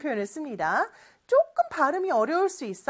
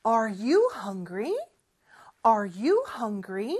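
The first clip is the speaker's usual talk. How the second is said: slow model reading; 2 semitones lower, much slower than usual. Shown as a demonstration. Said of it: "공부 시작해 볼게요".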